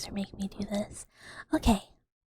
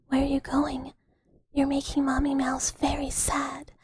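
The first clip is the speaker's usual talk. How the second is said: mock sad mommy; 2 semitones higher than usual. Mock sad mother ASMR bit.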